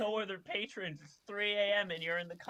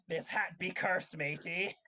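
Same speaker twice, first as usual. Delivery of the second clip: put-on pirate accent; 3 semitones higher than usual. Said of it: "I like that accent".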